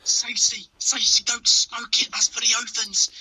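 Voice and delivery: cartoon impression. Co-host quotes the cartoon in a high, loud pleading voice.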